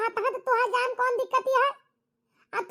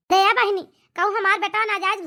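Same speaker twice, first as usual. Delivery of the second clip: calling out; 3 semitones lower, 6 dB louder than usual. Acted. Mother calls her friend.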